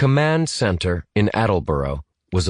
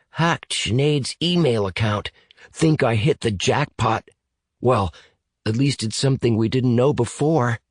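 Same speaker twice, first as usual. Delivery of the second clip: lightly voiced computer whiz, a bit higher; eager computer whiz; 5 semitones higher than usual. Computer whiz tells his partner about the hack, lightly eager. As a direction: lift the pitch slightly for a pleased young hacker. Evan reports his hacking success.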